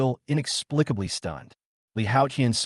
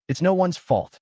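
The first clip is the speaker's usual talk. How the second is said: high, louder shout; 8 semitones higher, 3 dB louder than usual. Acted. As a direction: shout it at her. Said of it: "Jiang Kaiwei shouted".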